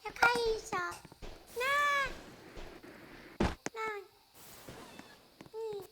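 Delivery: high squeaky voice after a shrink potion; tiny squeaky voice; chipmunk voice. Real, not acted. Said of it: "ficar com a voz fininha".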